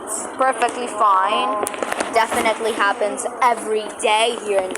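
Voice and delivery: dry sarcastic reassurance. Acted. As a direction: say it like it's obviously not fine. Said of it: "That was sarcasm".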